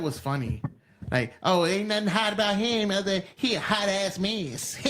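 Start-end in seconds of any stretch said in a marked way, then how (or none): 1.4-4.8 put-on higher voice aping her joke; mocking imitation. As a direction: parody her sassy delivery.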